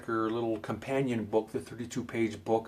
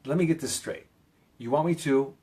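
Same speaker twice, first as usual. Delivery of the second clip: assertive; 2 semitones higher than usual. Shown as a demonstration. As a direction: stop them and assert yourself. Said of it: "You have to be assertive".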